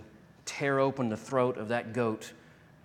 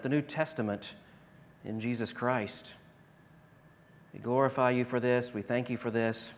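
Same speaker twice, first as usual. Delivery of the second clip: prayer. Acted. Pastor leads closing prayer.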